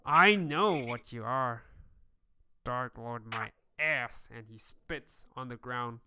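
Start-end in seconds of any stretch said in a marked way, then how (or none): 0.0-4.3 slow sneering whisper of a sweating dwarf; defiant dwarf leader. Acted. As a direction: hiss it out slowly in contempt. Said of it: "looking at you and says".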